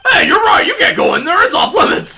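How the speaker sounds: high frantic yelling; panicked shout. Acted. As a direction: shriek a sudden panicked warning. Voicing panicked guard character.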